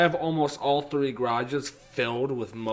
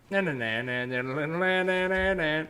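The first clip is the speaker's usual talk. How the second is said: horn imitation; 5 semitones higher than usual. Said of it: "the horn that's like".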